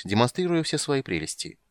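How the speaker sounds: plain reading voice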